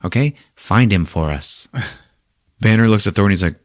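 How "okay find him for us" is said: high, hammed-up announcer voice; Grand Master announcing. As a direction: boom it over the city loudspeaker like a showman. Grand Master over the loudspeaker.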